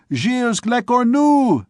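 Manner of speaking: high, loud, slow mocking yell; jeering shout. A narrator's reading. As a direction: chant his name in mockery. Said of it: "said some".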